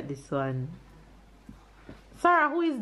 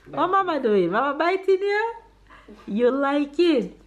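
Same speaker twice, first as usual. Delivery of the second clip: put-on baby talk; 4 semitones higher than usual. Playing with the baby.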